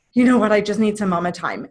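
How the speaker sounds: sudden firm announcement. Retold or imitated. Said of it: "So if I go".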